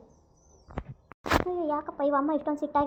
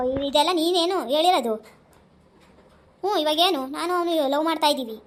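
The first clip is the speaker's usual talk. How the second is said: defiant outburst; 2 semitones higher, 6 dB louder than usual. Acted. Daughter defiantly admits love.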